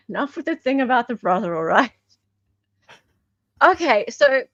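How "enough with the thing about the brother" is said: laughing mock scold. Real, not acted.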